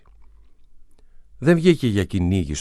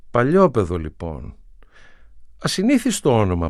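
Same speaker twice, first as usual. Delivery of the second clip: murmured; 5 semitones higher, 6 dB louder than usual. A narrator's reading. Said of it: "μουρμούρισε".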